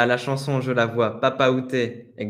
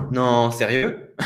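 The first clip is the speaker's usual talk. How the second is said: slow surprised reaction; 4 dB louder, much slower than usual. Shown as a demonstration. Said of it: "je vous déconseille de dire".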